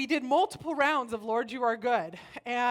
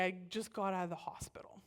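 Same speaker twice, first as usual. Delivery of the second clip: whispered; 2 semitones lower, 8 dB quieter, faster than usual. Real, not acted. Aside about being ill.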